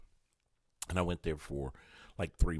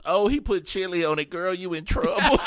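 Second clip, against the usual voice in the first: gossiping waitresses; 5 semitones higher than usual. Retold or imitated.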